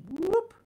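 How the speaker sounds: high, loud whoop; a sudden high whoop tracing a line; whoop sound effect. Shown as a demonstration. Art teacher traces the pinch stroke, high loud whoop.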